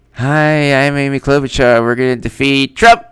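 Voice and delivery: lightly voiced candidate's victory speech; Amy Klobuchar. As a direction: parody an eager candidate's greeting. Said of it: "I'm gonna read Amy Klobuchar's victory speech".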